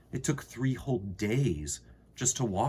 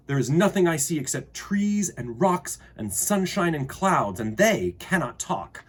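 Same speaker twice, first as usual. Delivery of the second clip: put-on puzzled child; 7 semitones higher, 5 dB louder than usual. Girl answers the unseen voice.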